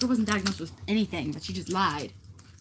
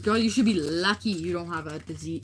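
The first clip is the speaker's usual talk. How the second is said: sassy retort; 6 dB louder than usual. Retold or imitated. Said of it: "I'm like".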